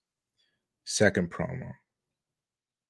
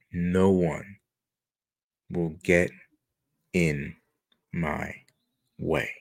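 menacing promo; 3 semitones lower, 3 dB quieter than usual. Retold or imitated. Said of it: "now he switches to English".

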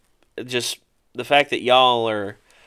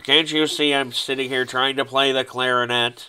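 cartoon character impression. Fan quoting a SpongeBob clarinet scene, droning character voice. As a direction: drone it out in an even, put-on voice. Continues quoting Squidward from the show.

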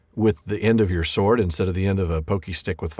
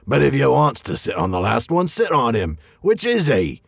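lightly voiced dim troll; a hint of a dopey troll; troll Tom; 3 semitones higher than usual. Tom speaking in story.

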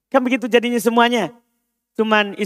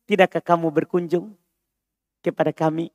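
soft and polite, inviting; gentle request; 3 semitones lower, 4 dB quieter than usual. Shown as a demonstration. Teacher showing a gentle Arabic request, softly polite. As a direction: ask it softly, like a kind invitation. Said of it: "Paham permintaan lembutnya?".

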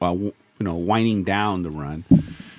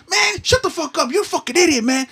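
put-on grumpy old man. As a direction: rant like a cranky old guy. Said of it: "grumpy ass motherfuckers".

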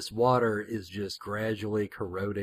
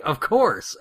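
a bright, eager "Of course!" said quickly, a little higher and louder; eager exclamation; 4 semitones higher, 4 dB louder than usual. Retold or imitated. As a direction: blurt "Of course!" like a keen newcomer. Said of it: "Getaway's like".

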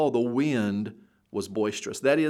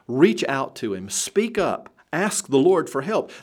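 rising exhortation; 4 semitones higher, 4 dB louder than usual. Acted. Preacher exhorting the congregation.

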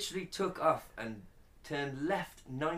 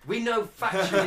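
louder, higher insistence; emphatic; 9 semitones higher, 10 dB louder than usual. Real, not acted. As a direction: stress on factually. Insisting over partner.

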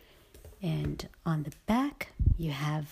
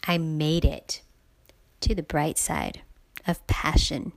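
excited greeting; 7 dB louder than usual. Acted. Podcast opening greeting, loud.

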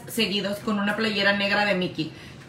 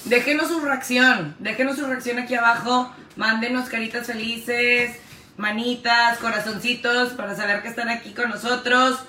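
vlog call to action. Acted. Asks viewers for reactions.

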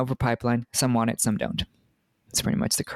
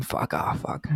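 whispered curse; 2 semitones lower, 4 dB quieter, slower than usual. Real, not acted. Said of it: "whispered aside".

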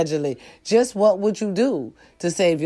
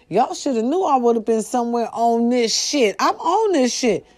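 much higher, emphatic boasting; excited boast; 5 semitones higher than usual. Real, not acted. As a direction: brag that you're on top of it. Boasting she's on it.

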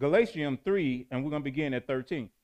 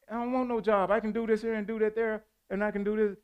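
lightly voiced young dreamer, pitched higher; hint of a youngster protesting in a higher, level voice; defiant youngster; 5 semitones higher, faster than usual. Youngster answering family who push a job, lightly voiced defiance.

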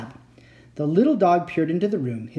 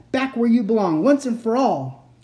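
raised, slowing final demand; angry cry; 7 semitones higher, 4 dB louder than usual. A narrator's reading. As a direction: press it home angrily. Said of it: "the second Uncle Victor cried".

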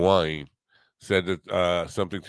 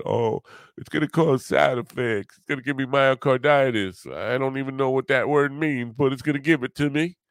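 Southern trucker; 6 semitones higher than usual. Retold or imitated. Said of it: "That was kind of like a Southern trucker".

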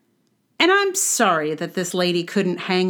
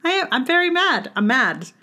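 playful mad; 5 semitones higher than usual. Shown as a demonstration. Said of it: "be like".

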